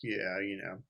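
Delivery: near-whispered, noncommittal yes; half-hearted agreement. Retold or imitated. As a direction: mumble along in low, soft agreement. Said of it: "And I just agreed, and he kinda like".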